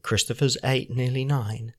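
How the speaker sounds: low murmur sinking into a whisper; hushed confiding. Real, not acted. Dad gossiping about neighbours' sleeping habits, hushed to a whisper. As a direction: drop your voice as if telling a secret. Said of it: "no need to whisper".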